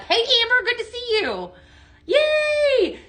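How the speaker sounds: high-pitched, excited squeal of welcome; delighted greeting. Real, not acted. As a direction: greet a friend in a very high, thrilled voice. Delighted greeting to a joining viewer.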